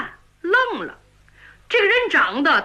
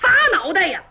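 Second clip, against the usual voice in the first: comic battle cry; 4 semitones higher, faster than usual. Acted. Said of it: "嘴里还喊着".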